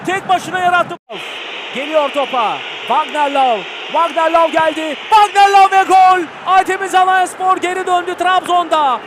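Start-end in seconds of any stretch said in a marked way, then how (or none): 5.1-6.2 screaming football commentator. Real, not acted. Goal call in live commentary.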